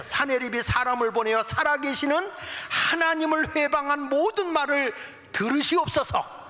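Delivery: high-pitched, insistent plea to God; imploring prayer, acted. Hezekiah asking God to hear the blasphemy, imploring. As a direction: cry out as a praying king. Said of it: "하나님께 기도하는 거예요".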